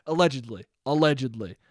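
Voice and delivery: laughing. Real, not acted. Laughing while backpedalling.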